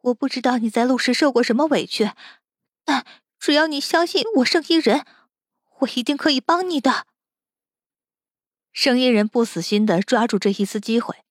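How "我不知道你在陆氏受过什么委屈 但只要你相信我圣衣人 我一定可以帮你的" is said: higher-pitched, urgent persuasion; pleading negotiation. Acted. Captive bargains with the captor for freedom, pleading.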